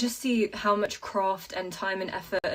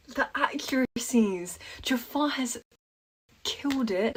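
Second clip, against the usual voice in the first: awed whisper; 3 semitones higher than usual. Real, not acted. Awed reaction to trailer.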